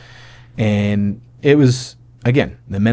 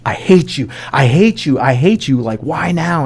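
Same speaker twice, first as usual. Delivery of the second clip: raised, insistent mock outburst; retold angry outburst; 5 semitones higher than usual. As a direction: imitate an upset wife lashing out. Wife punching him, acted outburst.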